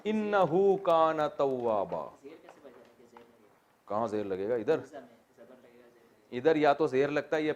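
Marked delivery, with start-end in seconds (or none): 0.0-2.1 slow, drawn-out chanted recitation; Quranic recitation. Shown as a demonstration. Teacher recites the verse for his students, slow and chanted. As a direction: recite the verse slowly, every vowel stretched.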